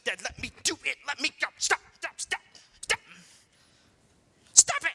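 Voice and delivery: put-on a little girl losing patience in the car seat; imitating a daughter yelling stop; mock child yelling. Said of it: "she's like".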